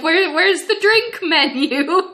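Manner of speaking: high, loud panicked question; mock panic, pitch shooting up; frantic. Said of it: "I'm looking around frantically".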